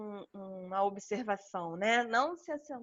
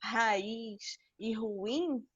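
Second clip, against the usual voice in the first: slowed examples; much slower than usual. Shown as a demonstration. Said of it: "da palavra juiz".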